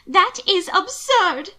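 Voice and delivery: slow, high, loud disbelief; aghast. A narrator's reading. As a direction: draw it out, appalled. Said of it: "to stare at him aghast".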